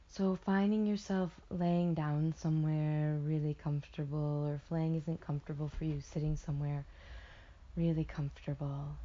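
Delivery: unhurried guided visualization with long pauses; guided meditation. Acted. Meditation guide settling listeners into a warm tub, soothing guided delivery. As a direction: ease them into imagining, drawing out key words.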